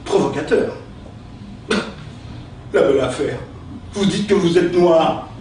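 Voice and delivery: theatrical verse recitation, with pauses; hammy stage actor. Acted. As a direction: declaim each insult like Cyrano. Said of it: "utiliser son style".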